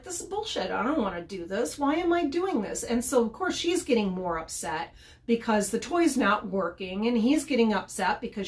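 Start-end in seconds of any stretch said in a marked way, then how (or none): 0.0-2.8 lightly voiced grumpy dog, high on the complaints; fed-up dog voice. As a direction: play the dog sulking about the toy. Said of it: "And the dog's like".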